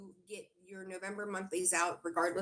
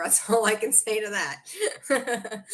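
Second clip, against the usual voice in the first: laughing; 3 semitones higher, 5 dB louder, slower than usual. Real, not acted. Reader laughs at a viewer's boyfriend joke, laughing. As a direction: laugh it off, giving up.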